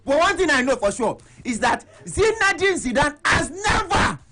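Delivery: "never" punched hard and slowed; stress on never. Shown as a demonstration. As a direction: lean on "never", drawn out. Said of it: "emphasis on the word never".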